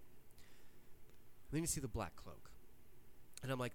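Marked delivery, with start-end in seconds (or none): 0.0-2.5 slow, hushed whisper; suspense whisper. Retold or imitated. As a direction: whisper it slowly like a secret reveal. Building suspense retelling reveal.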